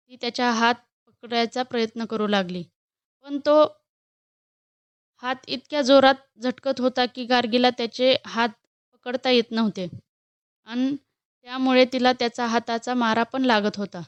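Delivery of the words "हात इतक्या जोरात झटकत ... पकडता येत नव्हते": usual speaking voice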